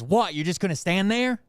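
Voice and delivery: retold cop's needling challenge; challenging cop. Cop looking right at the speaker, challenging.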